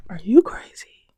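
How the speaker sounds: loud, disbelieving outburst; incredulous. Real, not acted. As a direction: call it out like they've lost their mind. Incredulous repeat to viewers.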